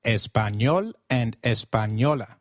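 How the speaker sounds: Español and Española with ny for the ñ; Spanish pronunciation. Shown as a demonstration. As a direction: model Español, Española for repetition. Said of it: "Can you try that".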